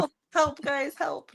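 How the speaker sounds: hammed-up pretend plea for rescue; mock cry for help. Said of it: "No, I'm just kidding".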